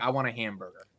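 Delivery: low, soft model of an American accent. Shown as a demonstration. Host modelling for his guest, low American accent. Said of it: "say it in an American way".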